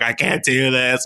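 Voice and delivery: mock whine of giving up early; slightly hammed-up despair; emotional wreck. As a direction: act like a wreck one hour in, lightly. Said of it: "I'd have been an emotional wreck".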